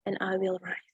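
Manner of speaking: hushed, breathy and I will rise; whispered refrain. Shown as a demonstration. Student ends the refrain demo in a whisper. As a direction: let the last rise fade to a whisper. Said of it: "Like this".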